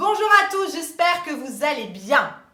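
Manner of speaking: very loud yet easy, without forcing. Voice lesson demonstrating a greeting, spoken loud but unstrained. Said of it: "je parle fort, sans forcer".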